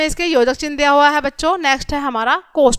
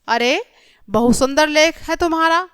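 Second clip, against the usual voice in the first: understated अरे, then admiring surprise; mild surprise; 3 semitones higher than usual. Shown as a demonstration. Teacher reading an exclamation example, mildly surprised. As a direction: read it as lightly surprised praise. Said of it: "बीच में आश्चर्य का भाव है".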